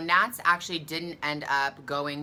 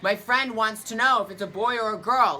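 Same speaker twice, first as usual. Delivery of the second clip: higher, louder mocking voice of the man; imitating the rude man; 6 semitones higher, 6 dB louder than usual. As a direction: parrot his rude question back. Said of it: "And he's like".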